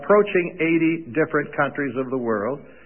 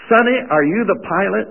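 lightly voiced old lady, pitched higher and louder; a hint of a sweet old lady calling him sonny; old lady stopping the pilot at the door, lightly voiced; little old lady; 5 semitones higher, 4 dB louder than usual.

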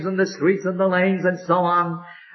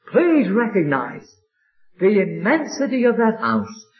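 tearful plea; 3 semitones higher than usual. Real, not acted. Pleading with the unsaved.

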